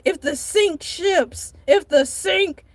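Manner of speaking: if the sink ships, tangled and slowed; confused mix-up; muddled phrase. Real, not acted. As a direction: trip over the words, then stall. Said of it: "what is it?".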